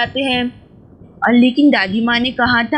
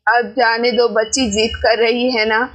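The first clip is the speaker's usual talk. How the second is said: put-on old grandmother; 4 semitones lower than usual. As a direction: speak low and unhurried like an elderly grandma. Grandmother voiced by narrator.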